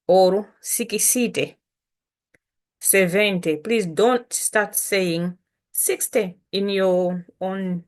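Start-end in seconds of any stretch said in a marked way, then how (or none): 3.6-7.8 slow it right down, calm; unhurried teacher explaining; calm slow instruction. Shown as a demonstration. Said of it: "bring it down to very calm, slower".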